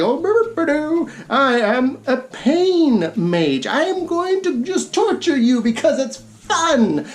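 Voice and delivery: hammed-up purring pain mage, slow; lightly voiced gleeful torturer; a hint of a dapper sadist, drawn out; mock villain. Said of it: "and he's like".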